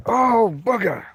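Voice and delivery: loud, sudden annoyed curse; exclaiming in annoyance. Real, not acted. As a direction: let the curse burst out. Dog pulls suddenly.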